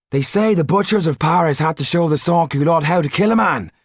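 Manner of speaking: high, voiced townsfolk trading rumours; gossiping crowd voice.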